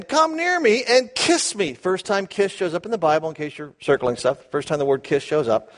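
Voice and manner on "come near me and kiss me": Isaac. Acted. Isaac's request voiced in story.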